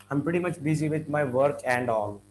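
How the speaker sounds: "and all" with the D of "and" sounded; unlinked. Shown as a demonstration. Teacher shows the form to replace, unlinked "and all". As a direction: keep "work and all" as separate words. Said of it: "Rather than that".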